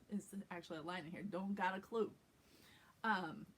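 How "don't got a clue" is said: slightly gangster New York accent; New York accent with a nasally placed oo on "clue". Shown as a demonstration. Coach shows the line from the script, New York accent. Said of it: "it feels just a little bit gangster".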